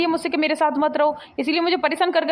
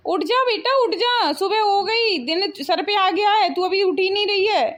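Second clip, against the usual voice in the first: calling to wake someone; 4 semitones higher, slower than usual. Acted. Mother-in-law waking late bahu.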